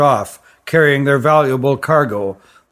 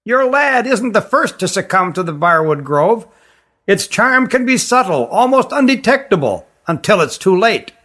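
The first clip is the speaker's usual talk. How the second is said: raised, high-pitched stranger's voice; 5 semitones higher than usual. Acted. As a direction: pitch it well above the narration. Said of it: "Issar spoke in a high voice".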